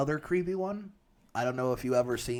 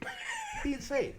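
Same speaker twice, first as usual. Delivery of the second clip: much higher, slower falsetto squeak; squeaky high voice; 4 dB quieter, slower than usual. Acted. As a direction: pitch it up into a squeal. Exaggerated repeat.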